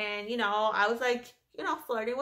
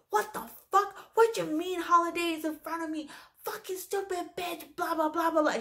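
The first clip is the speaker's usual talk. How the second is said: high-pitched mock tirade at normal volume; mocking, high-voiced tantrum; imitated yelling rant; 6 semitones higher than usual. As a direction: imitate an outraged woman ranting in a higher voice. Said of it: "yelling every single name of the book".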